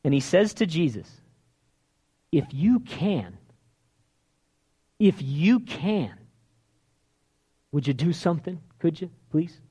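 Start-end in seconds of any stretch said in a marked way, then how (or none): 2.3-9.6 begging. Retold or imitated. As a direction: plead meekly, drawing out the words. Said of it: "He's begging Jesus".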